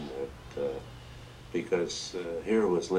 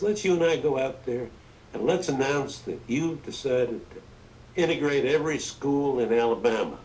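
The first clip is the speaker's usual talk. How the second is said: higher, louder insistent Southern president; hammed-up Johnson; 7 semitones higher, 4 dB louder than usual. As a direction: sell the big idea like Johnson would. Johnson voiced, pushing integration.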